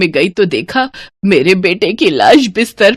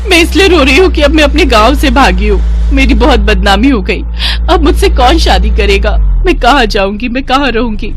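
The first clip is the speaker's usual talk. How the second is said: acted tearful complaint, raised voice; tearful wailing; 5 semitones higher, 3 dB louder than usual. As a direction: lament like a distressed bride. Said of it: "अरे, तुम अभी भी क्यों रो रही हो".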